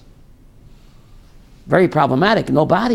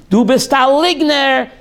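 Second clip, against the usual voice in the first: raised accusing voice, somewhat high; retold yell; 5 semitones higher than usual. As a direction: keep shouting liar at her. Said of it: "Screaming at her".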